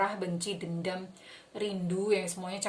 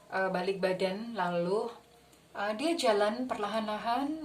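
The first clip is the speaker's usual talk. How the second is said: calm, gentle guiding voice; guided visualization. Acted.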